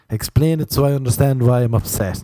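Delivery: indignant mock complaint. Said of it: "they'll be saying".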